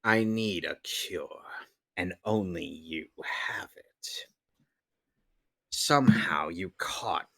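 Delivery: scheming mad scientist, mostly hushed; creepy mad scientist muttering plans; villain scientist voice. Acted. Dubs a villain scientist scene.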